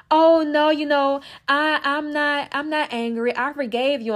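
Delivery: high-pitched, put-on denial of anger; mock forgiving. People skipping anger to reach the light, mock forgiving. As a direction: imitate someone pretending to be over it. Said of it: "like to skip over that and go into the light".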